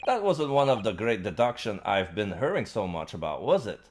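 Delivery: put-on slipping into a Scottish accent by mistake; Scottish accent creeping in unintended; accidental Scottish accent. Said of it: "why am I Scottish now?".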